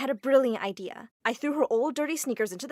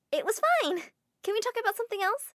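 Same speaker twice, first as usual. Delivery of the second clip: higher, fast nervous deflection; evasive brush-off; 11 semitones higher, faster than usual. Acted. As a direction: rush past the question. Susie dodging parents' question.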